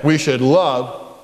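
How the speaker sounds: slow, even We should love everybody; slow repeat-after-me. Shown as a demonstration. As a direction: lead the class, word by word. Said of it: "Say it".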